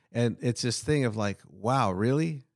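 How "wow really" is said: Peter amazed. Retold or imitated. Voicing Peter's amazed inner thought.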